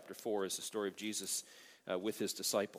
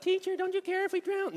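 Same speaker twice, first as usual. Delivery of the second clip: high, loud, frantic plea; freaking out; 11 dB louder than usual. Acted. Pastor acting disciples freaking out, high frantic cry. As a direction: cry it out like men about to drown. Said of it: "these guys were freaking out".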